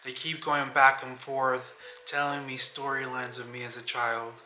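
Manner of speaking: measured, understated poem recital; spoken-word reading. Acted. Reading own writing to open the video, spoken-word delivery. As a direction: read your own reflective piece aloud, evenly paced.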